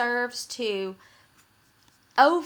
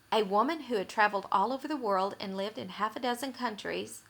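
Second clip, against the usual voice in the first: 1 rushed dangling reading; 4 dB quieter, faster than usual. Shown as a demonstration. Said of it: "leaves us hanging and dangling".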